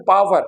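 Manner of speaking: POWER with a v, "paa-var"; wrong pronunciation. Shown as a demonstration. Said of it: "this is not power". (पावर, व पर ज़ोर देकर गलत)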